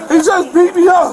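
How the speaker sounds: anguished outcry; shouting. Real, not acted. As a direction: cry out to the crowd in pain. Man crying out after beating.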